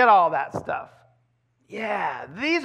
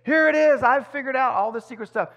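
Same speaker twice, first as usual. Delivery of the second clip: higher and louder, announcing a secret find; hyped-up discovery; 5 semitones higher, 4 dB louder than usual. Retold or imitated. Preacher mocking date-setters who hype secret discoveries. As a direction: burst in like you cracked the code. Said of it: "hype everything up and say".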